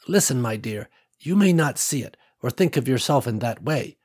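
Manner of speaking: lightly voiced older woman, gently insistent; kindly old woman. Ruby telling Nicole the others need her, lightly voiced kindly old woman. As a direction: reassure her like a fond grandmother.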